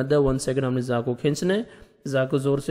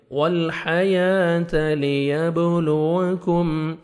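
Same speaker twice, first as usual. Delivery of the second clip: slow, drawn-out tajweed recitation; a teacher modelling careful tilawat; Quran recitation; much slower than usual. Shown as a demonstration. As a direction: recite each letter slowly and precisely. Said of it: "تا کو باریک پڑھیں گے".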